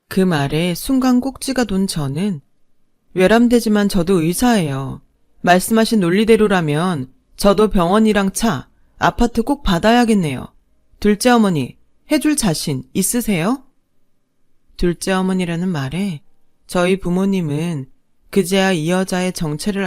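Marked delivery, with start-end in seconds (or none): 3.1-13.6 cold retort. Acted. Bride retorts coldly to stepmother.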